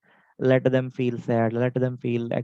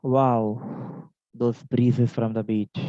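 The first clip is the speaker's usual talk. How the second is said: dreamy wonder; much slower than usual. Shown as a demonstration. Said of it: "we say".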